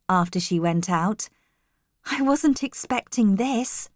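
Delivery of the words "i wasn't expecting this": higher, pleasantly surprised thought; happy. A narrator's reading. New governess alone after a kind welcome, happily. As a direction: think it happily, pitch lifted. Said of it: "I thought happily".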